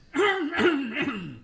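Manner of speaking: pointed throat clear; a disapproving ahem. A narrator's reading. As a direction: clear the throat to get attention. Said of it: "said a dour-looking individual".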